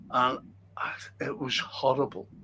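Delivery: whispered, low and hollow; hushed whisper. Real, not acted. Speaker recalling horrible war pictures, whispered low. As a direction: whisper it as if it still haunts you.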